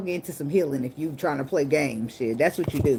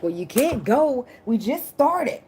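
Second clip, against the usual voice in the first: high-pitched imitation of a clinging partner; mock clingy protest; 8 semitones higher, 3 dB louder, slower than usual. Reader voicing the partner who won't let go, mock pleading.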